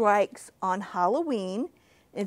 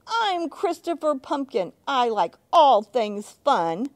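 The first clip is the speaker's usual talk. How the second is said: proud announcement; 3 semitones higher, 5 dB louder than usual. Acted. Chris proudly introducing himself to the monsters, louder. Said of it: "Chris says again".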